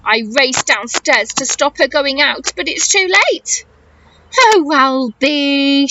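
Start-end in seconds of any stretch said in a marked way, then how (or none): 4.4-5.9 gasping Mum. Acted. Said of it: "she gasps".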